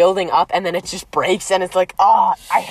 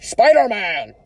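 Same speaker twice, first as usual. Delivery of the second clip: attempted blustering boss voice, drawn out; J. Jonah Jameson; much slower than usual. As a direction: call it out in a put-on voice at usual pitch. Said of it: "a Jameson impression".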